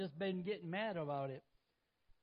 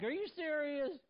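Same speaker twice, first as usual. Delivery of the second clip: higher, louder exasperated disbelief; incredulous again; 10 semitones higher, 4 dB louder than usual. Retold or imitated. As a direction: ask it half-laughing, can't believe it. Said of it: "I'm like".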